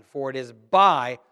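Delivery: For it is by said slowly, leaving a gap for the crowd; drawn-out prompt. Shown as a demonstration. Preacher prompting the congregation to finish the verse, slow. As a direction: stretch "For it is by" and wait.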